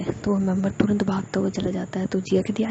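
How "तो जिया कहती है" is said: ordinary delivery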